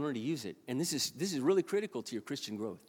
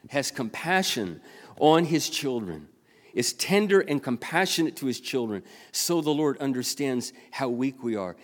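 preached scripture reading; 8 dB louder than usual. Real, not acted.

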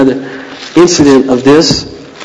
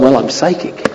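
joking claim; 5 semitones lower, 7 dB quieter than usual. Retold or imitated. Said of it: "Not really".

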